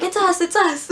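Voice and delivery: high-pitched comic calling out; mock frantic call. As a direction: call out urgently, played for laughs. Team calling out to friends.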